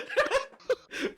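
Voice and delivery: shrieking laugh, well up high; high-pitched laugh. Real, not acted. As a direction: burst into a squealing laugh. Chase scene erupts.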